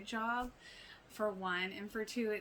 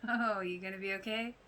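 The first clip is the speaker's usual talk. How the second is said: put-on mean girl; 4 dB louder than usual. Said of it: "The mean girl is back".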